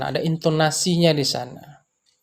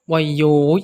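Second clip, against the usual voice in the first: dialek Pariaman; 3 dB louder than usual. Retold or imitated. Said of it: "seperti itu ya".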